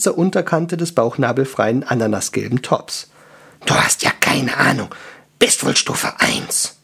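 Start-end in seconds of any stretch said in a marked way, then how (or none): 3.6-6.8 hoarse, growly dwarf put-down; rough, contemptuous dwarf voice; scornful dwarf. Acted. Dwarf sneers at the girl.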